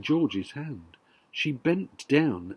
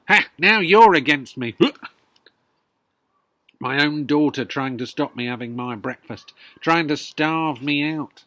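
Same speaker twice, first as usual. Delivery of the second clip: indignant grandma; 7 dB louder than usual. Acted.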